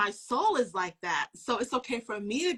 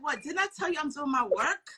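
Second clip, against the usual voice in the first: Jesus voiced exasperated; 4 semitones higher, 4 dB louder than usual. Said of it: "He's like".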